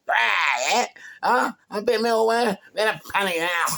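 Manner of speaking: high, loud scornful jabs; mocking jeer. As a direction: sneer it back at him.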